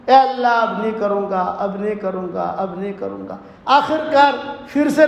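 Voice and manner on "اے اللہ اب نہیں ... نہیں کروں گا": lower, softer, sing-song repeated vow, dying away; fading plea. Acted. Majnun praying tearfully in the mosque, fading plea. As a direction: plead and fade out, half sung. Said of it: "بہت دعا مانگی".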